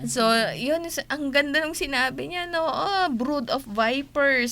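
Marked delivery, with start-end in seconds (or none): 2.6-4.5 John the Baptist. Retold or imitated. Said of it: "sabi niya".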